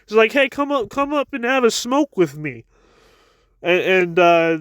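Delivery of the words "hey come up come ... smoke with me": higher-pitched mock call-out; casual retold call to someone below. Man on high inviting guys up to smoke, calling down. Jonathan calls down to other guys.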